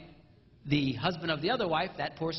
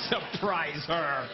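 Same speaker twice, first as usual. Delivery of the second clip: mocking repeat; 3 semitones lower, much slower than usual. Real, not acted. Mocking the idea.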